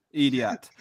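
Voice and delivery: Jamaican "idiot" said "idiæt", light Jamaican lilt; Jamaican accent. Shown as a demonstration. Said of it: "In Jamaican, you call him idiot".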